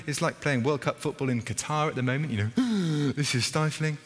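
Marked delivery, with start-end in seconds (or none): 3.1-4.0 fed-up Martha. Retold or imitated. Martha hot in kitchen.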